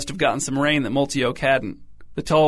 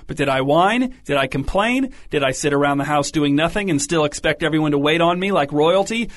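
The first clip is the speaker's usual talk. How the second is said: indignant rant. Acted. Mother scolding her son, indignant and raised. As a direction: throw each question at him.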